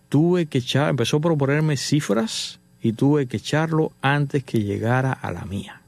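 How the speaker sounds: "tuve que echarlo antes" slowed down, dropping on "a la mía"; measured, weighty "que llegara a la mía"; dramatic repeat. Retold or imitated. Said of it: "Hago una pausa".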